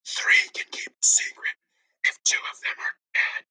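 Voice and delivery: conspiratorial whisper. Acted. Ben whispering a saying to townsfolk. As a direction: lean in and whisper the secret.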